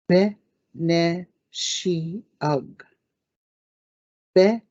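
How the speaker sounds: "beneshiug" with a rising end; Ojibwe plural. Shown as a demonstration. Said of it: "we say".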